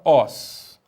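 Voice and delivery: os alone, open and stressed like ós; isolated second syllable. Shown as a demonstration. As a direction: sound out os as the accented final syllable. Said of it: "e a segunda sílaba".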